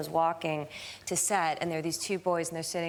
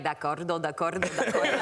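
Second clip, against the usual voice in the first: imitating an Italian dub of a catchphrase; dubbed Italian; 4 semitones lower than usual. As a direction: do the tagline as an Italian voice actor. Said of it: "when you get dubbed in Italian".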